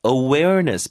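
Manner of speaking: "Awareness" said carefully as a model; pronunciation demo. Shown as a demonstration. Teacher shows learners how the new word sounds, careful "Awareness". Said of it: "발음 먼저 해드릴게요".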